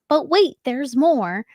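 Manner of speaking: slow, drawn-out infomercial pitch. Shown as a demonstration. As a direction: sell it like a TV ad host. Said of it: "You guys have me sounding like an infomercial".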